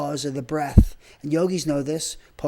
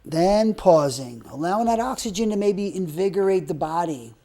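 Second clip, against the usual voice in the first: slow breath counting; 3 semitones higher than usual. Shown as a demonstration. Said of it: "like this".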